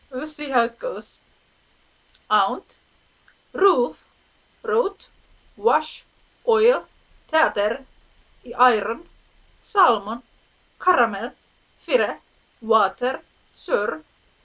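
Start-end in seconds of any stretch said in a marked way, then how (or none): 2.3-14.0 loud, exaggerated Finnish accent on every word. Reading a list of english words aloud, in an exaggerated finnish accent. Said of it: "a bit exagger- exaggerated Finnish accents".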